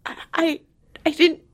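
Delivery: high, laughing embarrassed apology; flustered apology. Retold or imitated. Mom retelling her flustered laughing apology to onlookers. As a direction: stammer sorry while laughing. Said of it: "And I was like".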